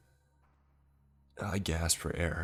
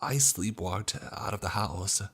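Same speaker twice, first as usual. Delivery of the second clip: desperate pleading; 4 semitones higher than usual. A narrator's reading. Son pleading to his furious family, desperate. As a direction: beg them to believe you.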